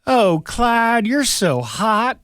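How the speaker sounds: high, loud flirty swoon. Pretend. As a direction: swoon over him, hammed up.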